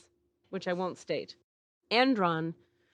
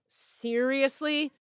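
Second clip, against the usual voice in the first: incredulous; 5 semitones higher, much slower than usual. Retold or imitated. Incredulous look at her friend.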